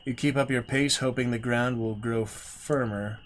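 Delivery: measured storyteller read, calm; gamebook narration. A narrator's reading. Streamer reading the gamebook aloud, steady storyteller voice. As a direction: read the marsh scene to viewers.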